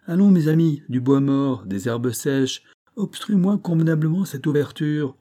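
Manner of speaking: rally the men to work; urgent call to comrades; rallying orders. A narrator's reading. Banks rallies men to gather fuel.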